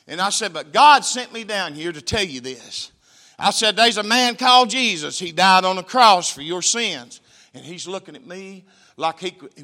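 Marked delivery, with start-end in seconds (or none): 0.5-7.2 slow, loud proclamation; forceful preaching. Retold or imitated. Preacher to a gang member, slow and loud. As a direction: drive home each word. Preacher telling him about Jesus.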